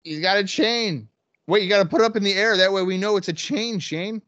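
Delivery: high and loud excitement; calling the chain spot, thrilled; excited. Real, not acted.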